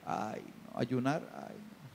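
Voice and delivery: whispered, groaning refusal; whiny flesh. Acted. The flesh answering the call to fast, whispered whiny refusal.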